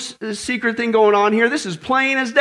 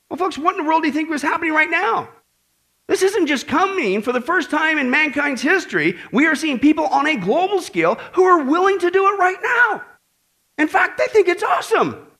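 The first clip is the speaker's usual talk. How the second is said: rising preaching fervor; 7 semitones higher than usual. Real, not acted. Preacher rousing his congregation, rising to a fervent shout. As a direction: build from urgent question to a near shout. Preacher building to alarmed climax.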